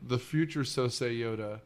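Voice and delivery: lightly voiced celebrity impersonation; a half-hearted go at the actor's voice; Nick Nolte. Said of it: "I'm doing my Nick Nolte impression".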